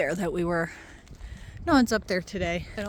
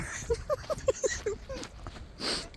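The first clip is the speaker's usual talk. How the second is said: laugh; 14 semitones higher, 8 dB quieter than usual. Real, not acted. Laughs at filming on the floor.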